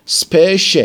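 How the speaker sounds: teacher singling out the sh in "اسپش"; sh sound shown. Shown as a demonstration. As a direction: isolate "اسپش" so the sh is clear.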